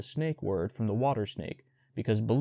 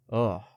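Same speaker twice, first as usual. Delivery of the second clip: short disgusted grunt; panther grunt. Acted. Panther grunts at the bear, disgusted grunt. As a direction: grunt your disgust at the bruises. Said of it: "Bagheera grunted".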